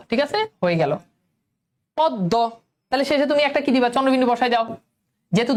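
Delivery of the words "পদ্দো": পদ্ম as "pod-do", m silent; doubled d. Shown as a demonstration. Teacher repeating for students, পদ্ম with doubled d. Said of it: "অন্যটার উচ্চারণ দুইবার হচ্ছে".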